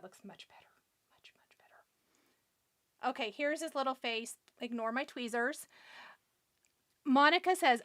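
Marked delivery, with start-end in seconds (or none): 0.0-3.1 slow satisfied whisper. Real, not acted. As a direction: whisper it, pleased, very slowly. Pleased with the finished face.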